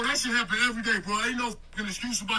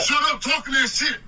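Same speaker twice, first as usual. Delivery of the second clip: angry; 3 semitones higher, 4 dB louder than usual. Acted. Heated argument in the car skit.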